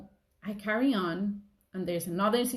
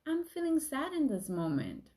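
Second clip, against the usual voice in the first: gentle self-talk; 3 semitones higher than usual. Retold or imitated. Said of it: "accept them and welcome them and say".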